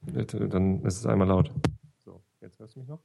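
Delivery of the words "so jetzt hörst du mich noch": much softer, as through a padded-down mic. Shown as a demonstration. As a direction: drop the mic level way down. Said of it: "Ja, aber wesentlich leiser".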